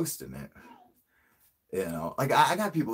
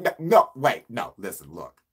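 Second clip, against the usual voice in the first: cutting them off; 2 semitones higher, 6 dB louder than usual. Retold or imitated. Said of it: "cutting them off".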